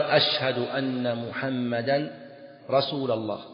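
slow drawn-out call with رسول said "rasula"; faulty accusative ending. Shown as a demonstration. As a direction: give رسول a final "a" in a stretched testimony. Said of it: "لحن، لا ريب أنه لحن".

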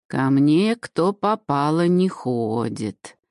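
put-on slow, creaking old crone; creaky old woman voice. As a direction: drag it out like a wizened hag. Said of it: "всё так же скрипуче отозвалась старуха".

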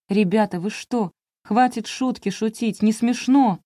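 rising to a loud, high cry of protest; alarmed shout. Acted. Нина кричит парням, чтобы прекратили, громко и испуганно. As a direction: yell at the boys to stop the joke. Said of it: "Я закричала".

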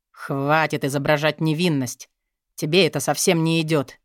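ordinary delivery

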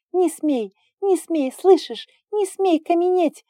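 high, loud desperate begging; cling and beg him; girl clinging to the dragon; feverish crying plea. A narrator's reading. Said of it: "шептала горячечно".

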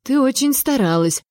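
a touch of sleepy grumbling. A narrator's reading. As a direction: grumble at being woken, understated. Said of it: "проворчала я".

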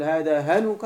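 "هنك" with a short u before the ك; short-vowel form. Shown as a demonstration. Teacher demonstrating case by short vowel, "هنك" with short u. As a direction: model "هنك" with its u kept short. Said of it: "بالحروف وبالحركات؟".

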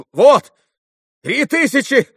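sudden high, loud cry; excited outcry of recognition; exclaiming. A narrator's reading. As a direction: burst out at the sight. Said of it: "вскричал он".

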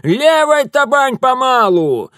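high, loud, slow order; shouted command. Acted. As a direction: call the stroke over the roar. Old woman commanding in rapids.

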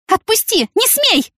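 high, loud cries of resistance; desperate protest. A narrator's reading. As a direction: fight him off, pleading. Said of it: "сопротивлялась Яна". (высокий отчаянный крик)

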